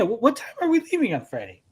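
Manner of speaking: stammering coworker. Retold or imitated. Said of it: "So, yeah, yeah".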